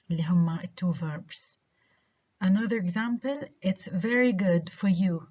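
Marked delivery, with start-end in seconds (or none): 3.6-5.3 "very good" carries it, "for you" unstressed. Shown as a demonstration. Teacher giving another example, "for you" unstressed. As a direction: keep "for you" weak at the end. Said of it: "not stressed".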